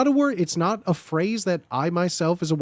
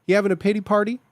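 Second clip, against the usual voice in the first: bully taunt; 3 semitones higher, much faster than usual. Pretend. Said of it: "that to me is, is white boy speech".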